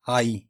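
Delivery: آئی said as "ee", the wrong long vowel; the common wrong way, آئی; wrong pronunciation. Shown as a demonstration. Teacher showing students the wrong way: آئی. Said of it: "آئی پڑھنا اس کو غلط ہے".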